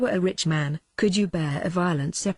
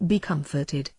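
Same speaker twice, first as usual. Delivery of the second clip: warm. Acted. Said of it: "he said with warmth".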